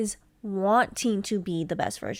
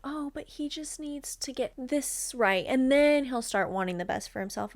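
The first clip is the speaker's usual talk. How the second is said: mock chill girl; 4 semitones higher than usual. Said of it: "the chill, cool girl that's".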